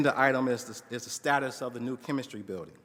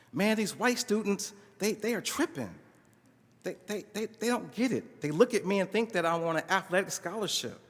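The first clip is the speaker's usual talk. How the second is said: put-on pitched-up, worked-up young man; venting student; 3 semitones higher than usual. Student venting to his professor about white classmates. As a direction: pour it all out in a rush.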